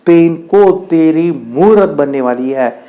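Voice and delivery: slow, drawn-out urging; lightly acted patient persuasion; coaxing explanation. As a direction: reason with a reluctant listener, slowly. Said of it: "वो समझाता है उसे".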